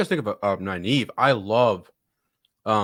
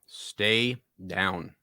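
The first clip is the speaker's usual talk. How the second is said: crunching chips; slower than usual. Real, not acted. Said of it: "Sorry about the crunching".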